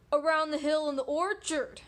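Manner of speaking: lightly voiced story wolf; wolf character. Wolf directing the pig to apples, lightly voiced wolf. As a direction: answer as a sly storybook wolf. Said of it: "the f-, wolf said".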